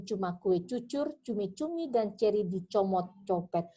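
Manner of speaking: articulation drill, running on without a fresh breath; one-breath tongue twister. Shown as a demonstration. Coach demonstrating a practice sentence for students, one-breath recital. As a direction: recite it steadily, crisp on every "c". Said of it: "ucapan kalimat dalam satu tarikan nafas".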